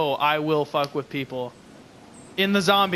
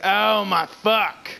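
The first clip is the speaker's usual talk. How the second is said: slow, louder raspy redo; strained croak; 5 semitones higher, 4 dB louder, much slower than usual. Retold or imitated. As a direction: croak it out slowly. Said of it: "Yeah, I said".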